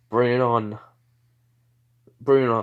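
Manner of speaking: psyched up, daring her to fight; eager taunt. Acted.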